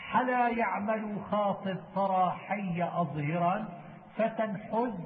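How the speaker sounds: measured, metrical reading of didactic verse; verse recitation. Acted. Teacher reciting memorised verse on Quran readings, measured recitation. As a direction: recite the poem slowly, line by line.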